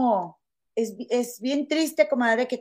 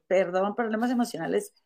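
retold dismissive echo. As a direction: throw the excuse back, unimpressed. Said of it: "Y yo".

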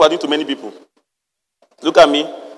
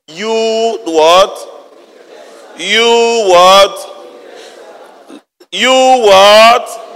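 building from plain to a louder incredulous "You what?"; outraged master; 2 semitones higher, 4 dB louder, much slower than usual. Acted. Master confronting the unforgiving servant, building outrage. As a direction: stack the outrage, louder each time.

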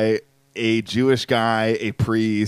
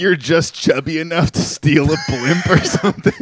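mock teasing; 6 semitones higher, 5 dB louder than usual. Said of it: "Oh, you're, like".

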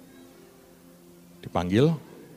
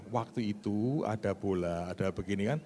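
meek mumbled reply; 3 semitones lower, 12 dB quieter than usual. Retold or imitated. Meek applicant answers officer.

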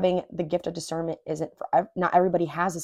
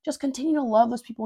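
self-scolding; 5 semitones higher than usual. Retold or imitated. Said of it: "I'm talking about myself here".

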